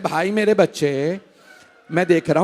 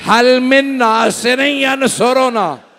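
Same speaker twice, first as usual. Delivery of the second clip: slow, high, loud plea with drawn-out words; crying out; 7 semitones higher, 7 dB louder than usual. Retold or imitated. Preacher voicing Hussain's call for help at Karbala, crying out. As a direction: cry out for help at full force. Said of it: "चीख चीख के कह रहे हैं".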